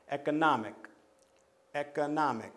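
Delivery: "economic" stressed on NOM; stress on third syllable. Shown as a demonstration. Teacher showing count-back rule, stressing NOM in "economic". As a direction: punch NOM each time in "economic". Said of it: "and that's the stress".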